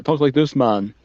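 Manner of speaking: lightly imitated Jamaican accent, lifted then falling. Wrestler reminding himself before radio, mock Jamaican accent. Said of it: "to do the Jamaican accent".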